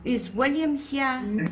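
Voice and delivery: calling out. Real, not acted. Psychic calling out to spirits.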